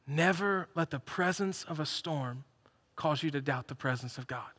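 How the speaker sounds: slow, soft, deliberate restatement; slow quiet sermon line for the congregation to hold; slow emphasis. Shown as a demonstration. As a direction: let each word land slowly. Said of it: "repeated slowly for emphasis".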